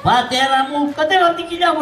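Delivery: high, put-on wail; mock lament. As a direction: cry out over a father playing dead. Son's fake lament over living father. (ψιλό, ψεύτικο μοιρολόι)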